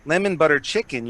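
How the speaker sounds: put-on lemon butter chicken in a light Minnesota Fargo accent. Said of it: "Tell us all your recipes in a Fargo voice".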